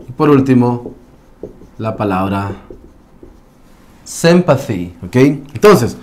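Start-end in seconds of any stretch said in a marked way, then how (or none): 4.0-4.9 sympathy starting "sem", short lax vowel; short E sound. Shown as a demonstration. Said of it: "es un short E sound". (sympathy con "e" corta, "sémpathi")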